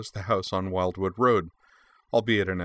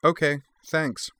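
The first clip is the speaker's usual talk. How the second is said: put-on young girl voice; 7 semitones higher, slower than usual. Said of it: "Anne said".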